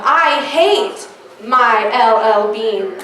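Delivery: slow, dragged grandma voice, lightly put on; imitating grandma. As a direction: lay it on slow like a blunt old grandma. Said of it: "And my grandmother said".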